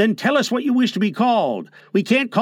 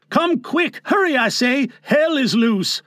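put-on old man calling his partners up the rock, urgent and raised; 5 semitones higher than usual. Old man calls partners to the peak, raised urgent call. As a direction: call them up, hurry. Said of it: "The old man yelled".

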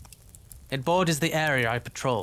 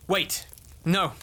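alarmed; 4 semitones higher than usual. Acted. Sudden alarmed realization.

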